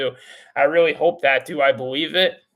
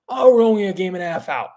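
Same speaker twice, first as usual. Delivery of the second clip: quick, dismissive mock of the team's shrug; mocking complacent attitude; 3 semitones higher, 5 dB louder, faster than usual. Fed-up fan mocks the team's complacent excuse, sarcastic. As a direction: sneer it like a lazy excuse, a bit louder and faster. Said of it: "that same attitude".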